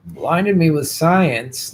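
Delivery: lightly voiced Shatner, slow and halting; hint of Shatner drawl; Shatner impression. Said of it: "As Shatner".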